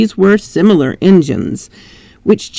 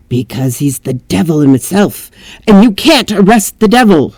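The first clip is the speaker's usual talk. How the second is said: servant. Acted. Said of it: "servant voice".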